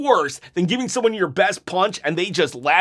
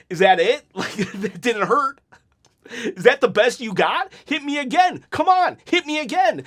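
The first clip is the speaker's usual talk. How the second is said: taunting, higher near the end; cocky goading, pitched up; retold trash talk; 5 semitones higher than usual. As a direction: dare them to hit you again. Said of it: "I start talking trash".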